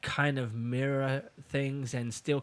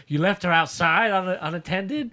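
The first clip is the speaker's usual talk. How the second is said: mad; 5 semitones higher, 6 dB louder than usual. Retold or imitated. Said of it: "doing that to make him mad".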